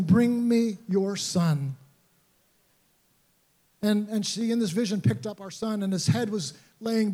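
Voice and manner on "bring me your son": slow, solemn and a little louder; very slow, gentle command from Jesus; a lightly voiced Jesus, slow and solemn. Jesus speaking in wife's vision.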